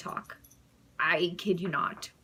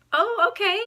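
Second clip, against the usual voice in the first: stunned; 12 semitones higher, 9 dB louder than usual. Retold or imitated. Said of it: "And I was just like".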